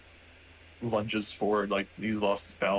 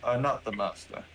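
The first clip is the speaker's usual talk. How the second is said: slow, higher-pitched robot voice; robot character; 4 semitones higher, 3 dB louder, slower than usual. Acted. Robot rejects the player's claim to be master, slow robot voice. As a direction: deliver a slow machine rebuttal. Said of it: "He looks to you guys like".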